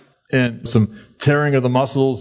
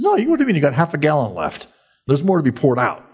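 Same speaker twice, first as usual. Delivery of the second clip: mock coach; 3 semitones higher, faster than usual. Coach refuses to let up.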